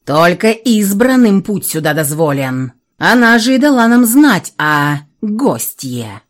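slow, weighty dragon voice; lightly voiced stern dragon. Dragon head explains.

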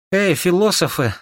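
high, strained call from a sickbed; weak call. A narrator's reading. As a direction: call out weakly but sharply. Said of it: "слабым голосом отозвалась Саша".

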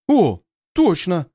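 breathy slow realization; surprised exhale. A narrator's reading. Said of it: "выдыхает он".

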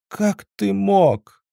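high, slow, melodramatic reproach; pathetic. A narrator's reading. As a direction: android girl wailing her grievance at Zhora, theatrically high and slow. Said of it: "патетично произнесла Светка".

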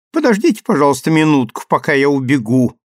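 chirping. Acted. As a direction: chirp it brightly through the door. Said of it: "прощебетали за дверью".

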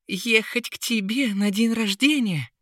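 high, outraged flower voice; high indignant plant voice; indignant lily. A narrator's reading. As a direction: pitch way up, scandalised. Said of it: "возмутилась ещё больше".

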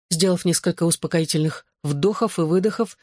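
ordinary delivery, nothing marked

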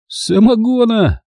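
high eager blurt. A narrator's reading. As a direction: blurt it out gleefully. Mamai's eager answer.

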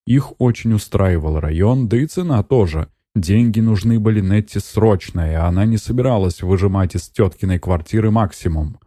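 plain reading voice

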